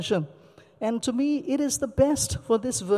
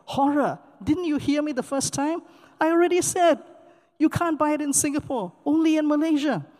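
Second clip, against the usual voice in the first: raised, exasperated retort; a sharp, higher pitched mock scold; indignant shop assistant; 5 semitones higher than usual. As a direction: play the annoyed clerk who already answered. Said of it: "you should have seen the look on her face".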